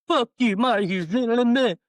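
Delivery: high, loud acted retort; mock outrage. Singer imagines cursing whoever fired her, indignant. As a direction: tell him off, playing up the anger.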